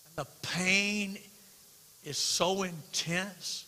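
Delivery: slow heavy preaching. Acted. Preacher slows on a painful thought.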